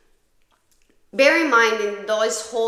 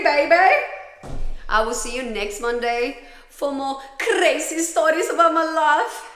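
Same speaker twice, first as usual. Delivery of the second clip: much louder and higher, a bright cheery goodbye; upbeat sign-off; 6 semitones higher, 8 dB louder than usual. Real, not acted. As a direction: wrap up the episode with big energy.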